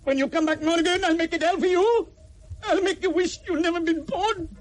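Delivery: a rival vowing to make his life hell; vicious threat. Acted. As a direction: swear vengeance through rage. Threat of revenge.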